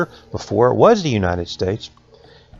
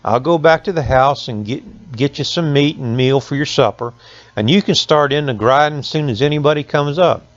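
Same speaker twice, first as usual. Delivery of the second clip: lightly voiced mill owner; 5 semitones higher than usual.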